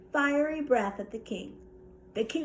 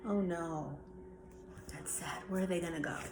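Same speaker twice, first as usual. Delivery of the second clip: sad; 6 semitones lower, 10 dB quieter than usual. Acted. Sister reacts to sad story.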